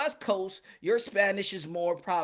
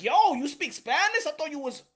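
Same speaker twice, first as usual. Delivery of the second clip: mildly surprised quote; 5 semitones higher, slower than usual. Retold or imitated. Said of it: "like, surprised".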